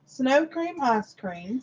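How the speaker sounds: says each word slowly, doubting; slow, drawn-out disbelief. Real, not acted. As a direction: savor the ridiculous name slowly. Repeats the odd flavor name slowly.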